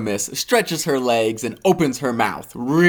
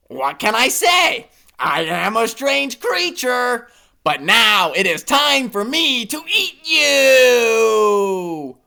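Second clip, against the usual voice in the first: higher, slow monster drawl; menacing monster; 9 semitones higher, slower than usual. Acted. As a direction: ease into the threat slowly. Monster closes in to eat.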